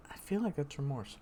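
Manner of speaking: talking around ice in mouth. Real, not acted. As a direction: speak with ice on tongue. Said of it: "I got ice in my mouth".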